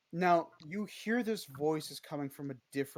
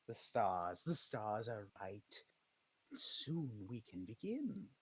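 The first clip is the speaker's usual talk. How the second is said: sinister patron entity, pleased; 3 semitones lower than usual. Acted. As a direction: coo at a favored minion while plotting. Patron speaks to her pet.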